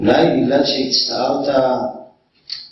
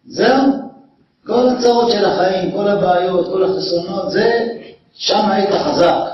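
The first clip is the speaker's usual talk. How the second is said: higher, incredulous brushing-off of a friend's tears; jeering "are you serious" voice, pitched up; mocking disbelief; 5 semitones higher than usual. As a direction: scoff at him like his grief is silly. Imagined friend mocking the crying.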